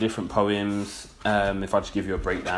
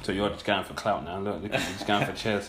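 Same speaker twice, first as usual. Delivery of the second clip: mouth full. Real, not acted. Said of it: "Sorry, I'm eating a pineapple".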